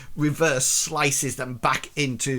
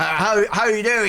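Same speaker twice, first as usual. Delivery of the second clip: sailor greeting; 7 semitones higher, 5 dB louder than usual. Acted. GM voicing sailor NPC greeting.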